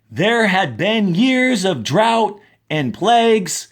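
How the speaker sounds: slow, expressive read-aloud for the class; story reading. A narrator's reading. Teacher reads a science fiction excerpt to her class, expressive storytelling.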